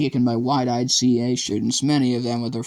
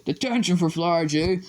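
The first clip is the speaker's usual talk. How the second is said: shout; 6 semitones higher than usual. A narrator's reading. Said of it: "Someone shouted".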